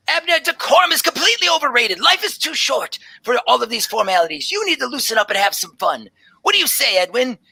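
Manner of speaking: very high, breathless delight; excited tabaxi druid. Acted. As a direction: gush like a wide-eyed scholar. Druid teases the stiff professor.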